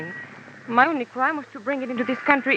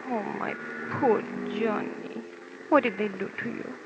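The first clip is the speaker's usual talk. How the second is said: tender concern; 4 semitones lower, 5 dB quieter than usual. Acted. Woman softly fussing over Johnny's bruised face. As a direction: coo over his injury.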